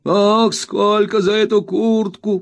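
put-on high, slow, whining old miser's wail; spiteful whining old man. A narrator's reading. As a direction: whine it out spitefully like a crazed old junk dealer. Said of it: "крикнул старик".

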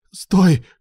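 a loud, high call to stop someone. A narrator's reading. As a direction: shout after him before he leaves. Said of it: "кликнул его Илья".

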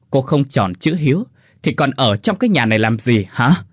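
growled reproach; husband scolding wife; harsh scolding. Acted. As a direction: lecture her through clenched anger. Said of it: "gằn giọng".

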